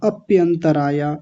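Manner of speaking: अप्यंतराया with a wrong extra अ in front; wrong added a. Shown as a demonstration. Teacher imitates students' common error, lightly. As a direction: show the mistake. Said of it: "अ लगा देते हैं".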